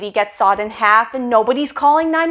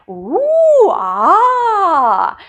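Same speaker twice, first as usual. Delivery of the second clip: mock wowed crowd; 6 semitones higher, 4 dB louder than usual. Party crowd wowed by tricks.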